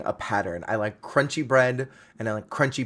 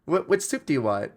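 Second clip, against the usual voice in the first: high mock-teasing waiter; hint of a taunting waiter; 7 semitones higher than usual. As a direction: goad them like a smug waiter. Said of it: "the waiter is fully like".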